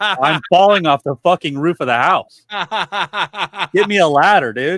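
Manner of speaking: loud, high retold shout for help; mock panicked yell. Man retelling his near fall off the roof, mock panicked yell. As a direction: yell it like a comic cry for rescue.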